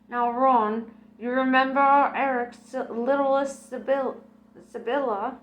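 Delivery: gossiping to her late husband; Mrs Ormerod voice. Acted.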